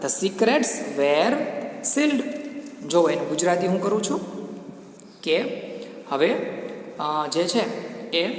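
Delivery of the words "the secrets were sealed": very slow, measured English reading; slow classroom read-aloud with drawn-out words; story read-aloud. Acted. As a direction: read the story out phrase by phrase, slowly. Reads the story text aloud.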